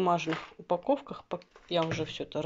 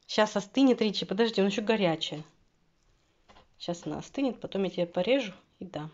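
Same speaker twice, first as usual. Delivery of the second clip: talking to a dog. Real, not acted. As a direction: soothe the waiting dog.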